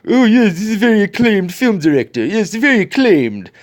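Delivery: high, fast mock praise; oozing fake admiration; sarcastic high mock voice.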